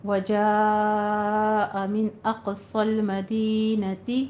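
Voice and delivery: slow chanted tajweed recitation; Quranic recitation. Shown as a demonstration. Teacher recites the full verse for the class, chanted. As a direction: recite it melodically, drawing out the madd. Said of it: "teacher recites verse".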